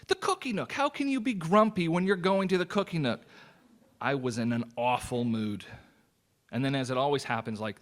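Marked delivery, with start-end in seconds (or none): 0.1-0.7 gleeful high squeal. Retold or imitated. Excited about the dessert shop. 0.7-3.2 playful disbelief. Retold or imitated. Mock disbelief at own grumpiness.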